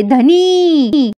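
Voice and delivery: a mild hammed-up yelp of the husband's name; loud cry. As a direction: cry out the name in startled delight. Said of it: "Pinky जोरात ओरडते".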